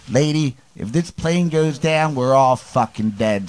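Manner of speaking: put-on light Philly accent on a drunk; a lightly voiced Philadelphia drunk. Telling friends about Novak in a light Philly accent. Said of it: "That's a good Philly accent".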